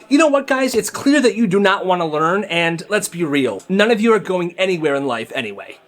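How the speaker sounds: fed-up outburst, high and loud at first; snapping teacher. Retold or imitated. Teacher at her limit turning on the class, snapping. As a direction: imitate a teacher losing patience with everyone. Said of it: "and she snaps".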